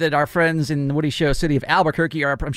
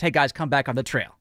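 polite; 3 semitones lower, 3 dB quieter than usual. Retold or imitated. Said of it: "how polite and accommodating he is".

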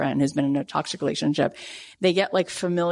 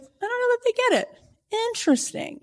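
pitched way up, doubtful, then a breathy whispered "Interesting"; unimpressed. Retold or imitated. Author mimicking her doubt after a publisher meeting, skeptical. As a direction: sound politely let down.

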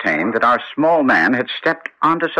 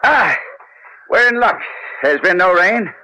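eager discovery; 7 semitones higher than usual. Acted. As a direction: pounce on the good news. Holmes finds the trail.

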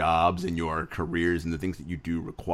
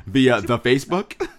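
amused disbelief; 3 semitones higher, 4 dB louder than usual. Real, not acted. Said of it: "which makes me sound like a grandma".

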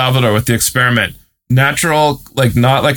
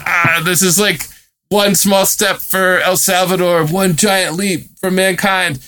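imitating a weepy, higher, slowed-down speech; mock crying speech; 5 semitones higher than usual. Retelling the crying Bitcoin bro's stage speech in a mock weepy voice. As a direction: ham up a tearful big-moment speech. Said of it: "and he's crying".

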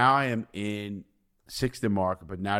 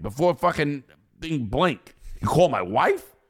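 inner rant; 2 semitones higher than usual. Retold or imitated.

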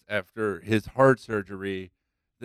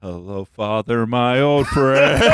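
slow dramatic intro; 3 dB louder, slower than usual. Pretend. Parodying a well-known song lyric.

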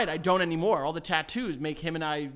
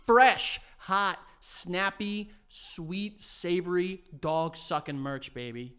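hyped merch plug; 2 semitones higher, 3 dB louder, slower than usual. Acted. Hyping own merch plug.

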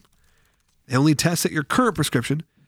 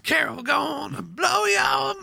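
dramatic shout; 14 semitones higher, slower than usual. Acted. Dramatic reveal to friends.

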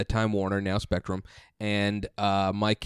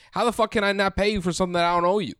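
mock angry outburst; 9 semitones higher, faster than usual. Angry retort to Spectrum.

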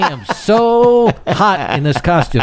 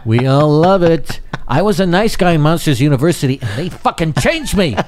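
Buscemi voice. Retold or imitated. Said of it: "Buscemi ... the parade voice".

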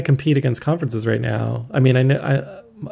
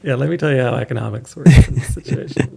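know-it-all pundit; 3 dB louder than usual. Acted. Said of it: "I'm a poor man's Scott Galloway".

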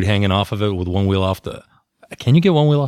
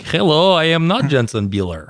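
hammed-up Iranian accent, higher at the start; mock Iranian accent; 5 semitones higher, slower than usual. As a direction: pretend to be an Iranian visitor with a put-on Iranian accent. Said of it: "I'm cousin from Iran".

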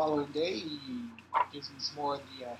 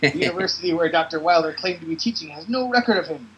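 chief voice; 9 dB louder than usual. Acted. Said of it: "He says".

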